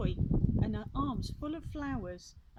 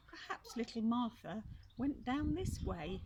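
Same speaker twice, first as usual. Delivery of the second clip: duck voice; 4 semitones higher than usual. Acted. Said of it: "she quacked".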